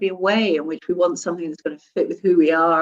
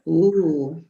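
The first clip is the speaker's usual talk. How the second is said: slow, laughing insinuating ooh; teasing insinuation; 3 semitones lower, much slower than usual. Shown as a demonstration. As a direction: tease them knowingly, breaking into a laugh. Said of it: "Or he's, or".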